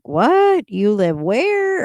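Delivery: surprised high "What?" then slow disbelief; mock shock at where she lives; incredulous people. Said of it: "people like".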